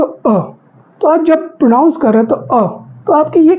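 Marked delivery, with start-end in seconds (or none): 0.0-0.4 अ cut short, one quick open vowel. Shown as a demonstration. Teacher showing students the short vowel अ. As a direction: clip अ short to show its small length. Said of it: "कम मात्रा लगती है".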